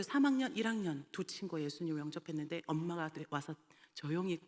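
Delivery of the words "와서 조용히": soft unvoiced telling; whispered. Real, not acted. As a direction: whisper it, hushed. Mother quietly pulling child away.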